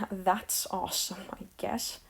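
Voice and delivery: soft, deadpan sarcasm; sarcastic. Real, not acted. Vlogger on classmates' worse jokes, quietly sarcastic. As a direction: let it drop away, unimpressed and sarcastic. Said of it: "that was me being sarcastic".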